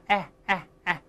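哎 as an open "æ", mouth stretched wide; wide-mouthed vowel demo. Shown as a demonstration. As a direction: demonstrate 哎 with a widely spread mouth. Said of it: "这个声音一定要把嘴咧大一下".

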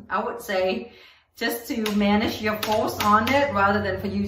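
muffled behind mesh mask; speaking inside protective helmet; through a fencing mask. Real, not acted. Seen 4: Mesh fencing mask with hood covers face throughout labelled speech.

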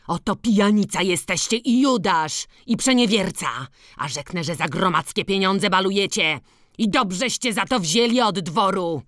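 angry peasant calling the headman a Judas; heated outburst. Acted. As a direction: let the accusations rise hotly. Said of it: "wołał zapalczywie".

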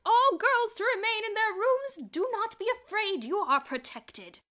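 very high, very loud, slow PA orders; loudspeaker announcement. A narrator's reading. Miss Scrimmage orders the girls over the loudspeaker. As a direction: command the girls over the speakers. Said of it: "voice came over the public address system".

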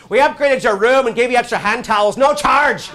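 loud, high, urgent announcement; aggressively friendly urgency. Retold or imitated. Hotel clerk giving an upgrade to new guests, with aggressively friendly urgency. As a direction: press the kindness on them like an emergency. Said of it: "it's with the urgency of".

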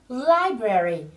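slow, drawn-out model of "library"; đọc mẫu chậm. Shown as a demonstration. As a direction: say "library" slowly for learners to repeat. Giáo viên đọc mẫu cho lặp lại. (đọc mẫu thật chậm)

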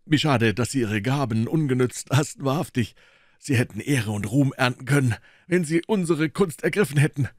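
high, loud enthusiastic praise; a fighter booming his admiration; loud, high and eager; hearty loud boxer. Acted. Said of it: "brüllte der Preisfechter".

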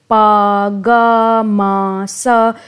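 "पा, गा, मा, सा" as separate clipped sounds; single syllables. Shown as a demonstration. Teacher sounding out one-syllable examples for students. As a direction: give each syllable its own short beat. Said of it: "तो ये एक syllable है".

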